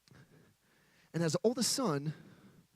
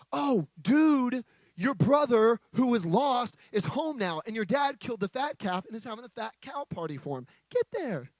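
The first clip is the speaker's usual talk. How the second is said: excited worker. Acted. Excited worker tells older son.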